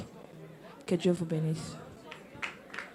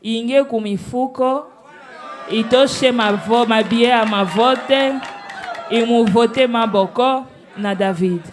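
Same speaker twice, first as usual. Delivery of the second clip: raised, emphatic voice; loud rallying call; 5 dB louder than usual. Real, not acted. Judge urging the room to vote Maboko, loud rallying call. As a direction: call out loudly to rally the votes.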